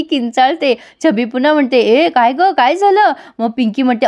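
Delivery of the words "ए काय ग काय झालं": sudden alarmed what happened; sister-in-law hearing a shriek, startled and higher; startled question. Acted. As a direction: pitch jumping high on the last word.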